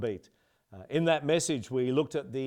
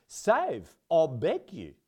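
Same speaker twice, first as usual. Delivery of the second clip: South African accent; 3 semitones higher, slower than usual. Shown as a demonstration. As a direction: save I beg you in South African accent. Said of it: "needs to be said with a South African accent".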